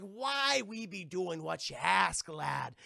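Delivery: slow, lightly voiced pirate; pirate captain. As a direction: drawl it with a hint of old sea dog. Barbossa acted in pirate talk.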